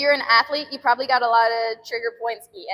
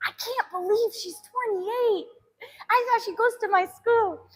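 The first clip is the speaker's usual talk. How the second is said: put-on incredulous girl; 10 semitones higher, 3 dB quieter than usual. The girl tells her mom she can't believe it, in a high amazed voice. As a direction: marvel at it, half laughing. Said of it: "She's like".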